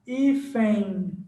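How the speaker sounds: "Hífen" drawn out with a nasal ẽi ending; nasalized ending demo. Shown as a demonstration. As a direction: let "Hífen" end on a long nasal glide. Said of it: "É um som nasalizado".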